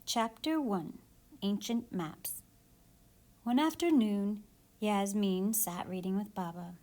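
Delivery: put-on lively read-aloud to kids; story reading for children. Teacher reading a picture book aloud to her class.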